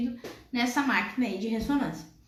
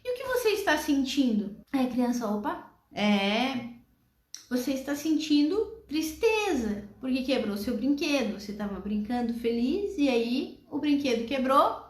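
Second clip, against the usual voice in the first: calm mother. Acted. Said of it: "aquela mãe vai lá e pergunta".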